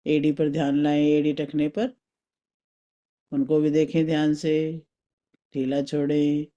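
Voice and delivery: calm, spaced-out meditation guidance; guided meditation. Acted. Teacher leading a mental journey through the body, guided meditation. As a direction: guide them inward with long pauses.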